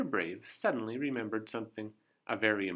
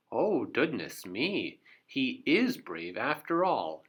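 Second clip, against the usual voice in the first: in awe; 3 semitones higher, 3 dB louder than usual. Acted. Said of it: "she said in awe".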